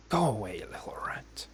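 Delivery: unvoiced whisper go away; whispered dismissal. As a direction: hiss it off under your breath. Sister repeats it whispered.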